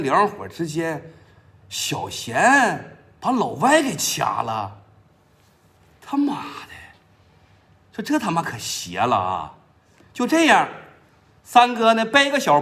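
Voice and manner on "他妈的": whispered curse. Acted. Sange marvels at the news.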